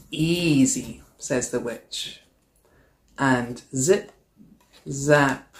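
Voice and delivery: lively storybook read-aloud; animated picture-book narration; reading to children. A narrator's reading. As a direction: read it like story time for a class. Teacher reads picture book aloud.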